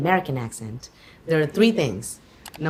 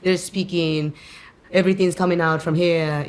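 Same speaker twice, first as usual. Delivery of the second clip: French placement. Shown as a demonstration. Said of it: "very in the front of the mouth".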